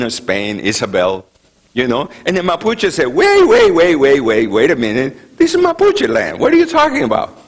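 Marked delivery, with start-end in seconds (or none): 3.1-7.4 much higher, louder wait wait; retold indignant objection; mock protest. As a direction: cry out in alarm, high and loud. Mapuche protesting the Spaniards.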